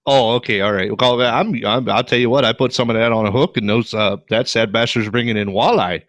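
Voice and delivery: folksy Yooper fisherman; Yooper accent. Pretend. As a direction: spin a fishing tip in a Yooper accent. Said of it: "John's Yooper accent is better than mine".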